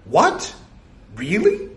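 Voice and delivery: high, disbelieving little yelps; high-pitched, thrilled devotee; astonished drone. Acted. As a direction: squeak out amazed questions.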